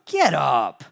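sudden loud order; stern command. Acted. God answers Joshua lying on his face, stern loud command. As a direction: order someone sharply off the floor.

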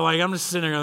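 ordinary talk, nothing marked

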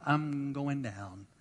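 mock alarm, slowing to a drawn-out descent; imitated sinking Peter. Peter seeing wind and waves, mildly hammed-up dismay. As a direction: lightly act out panic, stretching the last words. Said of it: "He's like".

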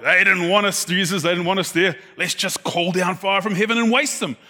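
a brash pair of hotheads egging Jesus on; half-mocking zealous brothers; mock disciples. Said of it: "They're like".

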